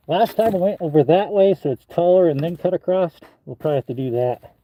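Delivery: talking through a face mask; muffled voice behind a mask. Real, not acted. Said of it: "Sorry I'm muffled".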